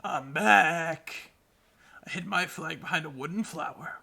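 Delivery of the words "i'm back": mushroom person. Acted. Voicing mushroom character.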